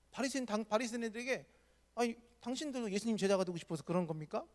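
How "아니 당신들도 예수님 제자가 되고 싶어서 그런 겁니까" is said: taunting rising question; mock them with a sly rise; provoking. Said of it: "도발하고 있는 거죠". (끝을 올리며 비꼬듯 도발)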